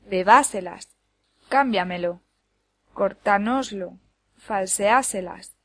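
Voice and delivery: Bebáselas, cámbiamelo, cortánoslo, falseáselas, each with an early punched syllable; stress before antepenultimate syllable. Shown as a demonstration. Teacher gives examples of sobresdrújulas, Bebáselas to falseáselas stressed early. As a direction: hit the accented vowel in Bebáselas, cámbiamelo, cortánoslo, falseáselas, spaced apart. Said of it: "anterior a la antepenúltima".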